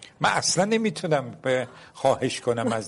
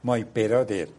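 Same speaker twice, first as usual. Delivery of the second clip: put-on Persian accent English; much slower than usual.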